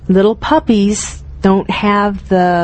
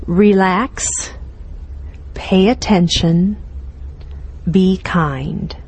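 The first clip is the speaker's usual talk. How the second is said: mantra; 2 semitones lower, 4 dB quieter, slower than usual. Shown as a demonstration. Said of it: "I love that as a mantra".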